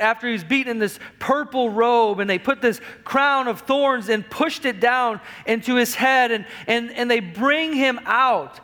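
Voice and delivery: full-force pulpit delivery; fiery preaching. Acted. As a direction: preach it hard to the congregation.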